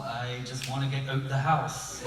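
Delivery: slow mock Irish lilt; a bad Irish accent. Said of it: "American with the occasional".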